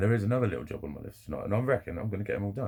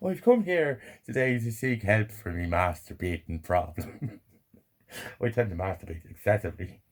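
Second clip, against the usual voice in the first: mock confession; 2 semitones higher than usual. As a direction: play a sheepish man confessing at a meeting. Mock confession at support group.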